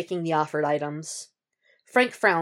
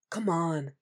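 chiding undertone; 6 dB quieter than usual. Acted. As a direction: chide him gently under your breath. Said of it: "he chides in an undertone".

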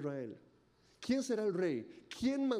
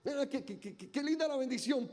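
mock delight; 6 semitones higher than usual. Voicing delighted believers.

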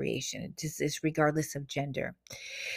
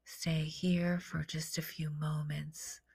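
guided meditation; slower than usual. Acted. Settling listeners after the affirmations, soothing meditation voice. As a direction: begin hushed, gradually return to full voice.

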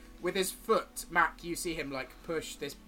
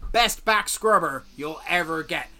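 lightly voiced scruffy salesman; a fawning trader reeling off his wares; stall merchant; 2 semitones higher, 8 dB louder than usual. GM as merchant selling tools to the party, lightly voiced.

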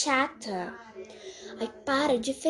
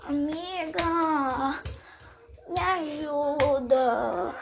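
put-on drunk; much slower than usual. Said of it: "Eu acho que você tá bêbada".

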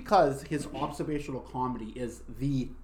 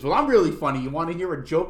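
mock Vietnamese accent; 3 semitones higher, 7 dB louder than usual. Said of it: "busted into this Vietnamese person".

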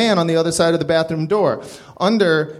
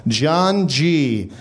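slow ominous reading; slower than usual. Acted. Tattoo read in ominous voice.

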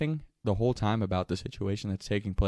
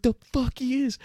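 high, cocky snap; defiant retort; 14 semitones higher, 3 dB louder than usual. Retold or imitated. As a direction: refuse to get caught.

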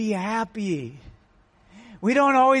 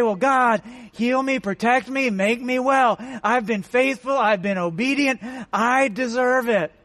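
demanding prayer. Retold or imitated. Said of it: "I don't see any demands in here".

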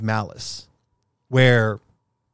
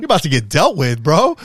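fast, louder, higher tough-guy threat; mock threat; 4 semitones higher, 6 dB louder than usual. Telling a friend how he'd defend his car, hammed-up loud threat. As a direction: rattle it off like you're ready to fight. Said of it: "I said".

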